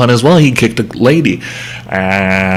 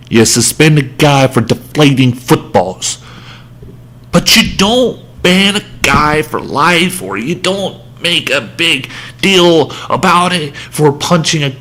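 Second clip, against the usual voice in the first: ranting voice. Real, not acted. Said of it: "hear my soothing, ranting voice".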